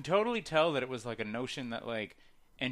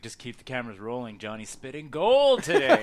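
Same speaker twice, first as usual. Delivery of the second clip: mock stoned director; 7 dB louder than usual. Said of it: "and he's just like".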